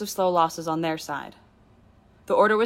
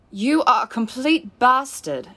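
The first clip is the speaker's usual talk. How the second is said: much higher, louder, slow furious insult; 6 semitones higher, 5 dB louder, slower than usual. A narrator's reading. Hurt woman curses the man who kicked her. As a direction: hurl each word at him.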